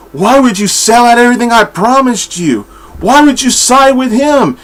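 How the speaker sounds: freaking out. Retold or imitated. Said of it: "Ducard's freaking out".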